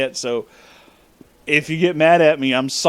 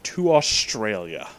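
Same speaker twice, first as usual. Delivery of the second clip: deadpan; 5 semitones lower, 4 dB quieter, slower than usual. Real, not acted. Deadpan punchline after pause.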